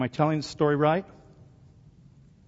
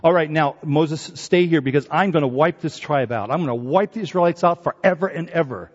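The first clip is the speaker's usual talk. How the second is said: raised, commanding voice of God; God speaking; 3 semitones higher, 5 dB louder than usual. Retold or imitated. God warning Moses, lightly voiced stern command. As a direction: boom the warning a little. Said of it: "God said".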